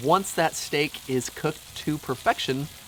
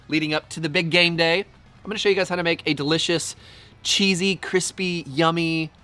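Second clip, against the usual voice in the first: hyped-up show opener, loud; excited; 4 semitones higher, 4 dB louder than usual. Acted. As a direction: sell it like a pumped host.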